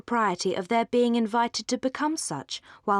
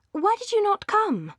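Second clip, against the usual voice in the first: eager reproach; 12 semitones higher than usual. Acted. Marianne presses Edward eagerly.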